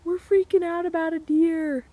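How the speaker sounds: laughing at ourselves. Retold or imitated. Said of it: "We were laughing".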